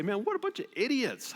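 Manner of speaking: high mock exasperation; exasperated reader. Reader scoffing at the Israelites, exasperated. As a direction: scoff in disbelief. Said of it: "and you say".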